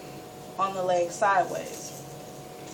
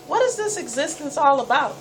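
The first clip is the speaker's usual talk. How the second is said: put-on a young girl railing at her own sickness; frustrated self-questioning; 5 semitones higher than usual. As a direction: demand an answer from life, exasperated. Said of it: "asking myself".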